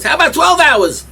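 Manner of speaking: high, loud and slowed; building exasperation. Acted. Preacher builds on a baby waiting hours for its bottle, loud and slow. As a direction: stretch it out, exasperated.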